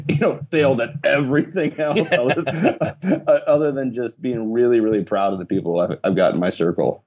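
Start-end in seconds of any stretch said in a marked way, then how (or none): 0.1-4.8 laughing. Real, not acted. Laughs at own self-deprecation.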